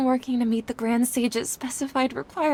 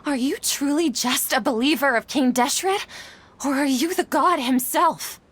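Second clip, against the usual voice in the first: stunned, pressing the stranger for the truth; astonished; 3 semitones higher than usual. Acted. Setaria to the stranger, astonished and questioning. Scholar confronting the mysterious believer.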